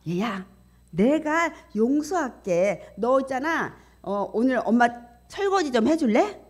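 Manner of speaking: a hint of an indulgent mother; lightly voiced coaxing mother. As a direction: lightly act a mother striking a deal with her son. Voices a mother forgiving her son.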